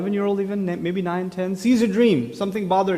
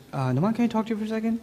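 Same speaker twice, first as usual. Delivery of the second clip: quiet hurried wife; 2 semitones higher, 6 dB quieter, much faster than usual. Retold or imitated. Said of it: "And she goes".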